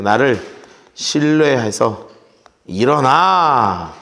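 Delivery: slow, deliberate, each word weighed; slow emphatic call. Acted. Preacher slowly voicing God's call to rise. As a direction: draw out every word of the command. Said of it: "slow emphatic restatement".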